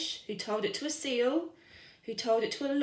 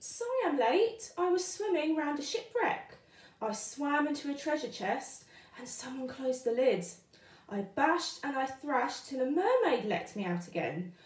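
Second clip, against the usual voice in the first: lightly raised little fish voice; Tiddler excuse; 3 semitones higher than usual. Acted. Little fish explaining to teacher, lightly high. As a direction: rattle off the excuse like a cheeky fish.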